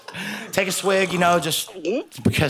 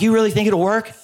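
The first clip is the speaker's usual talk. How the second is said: put-on higher-pitched girlfriend voice; imitated girlfriend; 7 semitones higher, 4 dB louder than usual. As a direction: ask it high, imitating a doubtful girlfriend. Girlfriend voiced doubting the plan.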